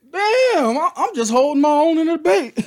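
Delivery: high, loud, laughing through the words; laughing defence. Real, not acted. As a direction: protest while cracking up. Laughing defence after insult.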